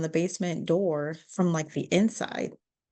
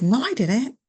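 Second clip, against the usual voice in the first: higher, louder defensive denial; 5 semitones higher, 7 dB louder than usual. Retold or imitated. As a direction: fire back a loud denial. Mother denies throwing kids.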